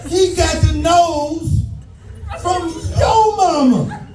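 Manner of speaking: a high, slow, shouted mom clapback; a hammed-up, slow, high yell; mock yell. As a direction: mom fires back on the kid's behalf.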